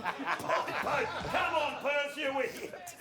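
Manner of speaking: laughing, slowed mock shout at the player; half-laughing fond telling-off; laughing exasperation. Real, not acted. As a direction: scold him through laughter. Mock exasperation at old footage.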